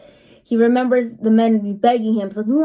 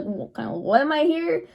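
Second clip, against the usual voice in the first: quiet false start, then higher-pitched puzzled question; mock bewilderment; 6 semitones higher, 3 dB quieter than usual. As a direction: imitate a baffled bystander, voice lifting high. Imitates Gabby baffled by the chaos.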